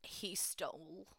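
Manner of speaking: conspiratorial whisper about a theft; worried whisper. Real, not acted. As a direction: whisper it so nobody overhears. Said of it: "why are we whispering like they can hear".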